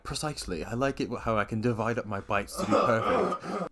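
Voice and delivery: lightly voiced fussy math teacher; prim, precise impression of a co-host; mimicking co-host. Teasing a co-host as a sixth grade math teacher, mimicking. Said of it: "You were like".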